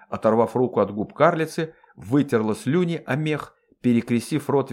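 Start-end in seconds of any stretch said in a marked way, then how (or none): none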